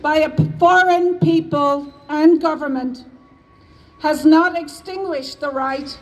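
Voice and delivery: measured, solemn reading of a historic proclamation; formal proclamation reading. Shown as a demonstration. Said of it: "to now read the proclamation".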